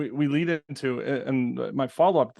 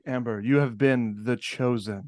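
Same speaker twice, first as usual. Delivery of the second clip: laughing, half-shouted mock proclamation; mock grand announcement; 6 semitones lower than usual. Host teasing the actress about her casting call, laughing mock proclamation. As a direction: announce it like a big reveal, cracking up.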